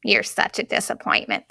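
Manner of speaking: a light take on the grandmother's scorn; grandmother impression. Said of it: "Did that sound like her?".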